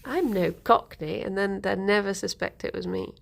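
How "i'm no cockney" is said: mock posh innocence in contrast to Cockney; lightly hammed-up posh voice; put-on posh accent. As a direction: play the refined lady, posh accent. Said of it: "there was this Cockney woman".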